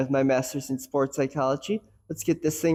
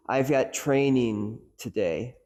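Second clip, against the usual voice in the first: got pushed, slow delivery; stress on got; slower than usual. Shown as a demonstration. Coach demonstrating stress on got, slow emphasis. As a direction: lean on the word got. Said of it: "putting the emphasis on each different word".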